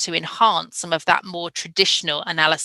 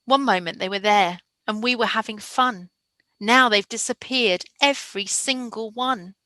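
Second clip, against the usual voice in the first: put-on sad lost child; 3 semitones higher than usual. Shown as a demonstration. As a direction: read it like a small lost child. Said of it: "listen to the difference".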